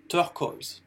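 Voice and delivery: turquoise said slowly as "tur-koyz"; English turquoise, slow, with an "oy" vowel; English pronunciation. Shown as a demonstration. Teacher repeats the word for learners, slow English pronunciation of turquoise. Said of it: "ça se prononce O E".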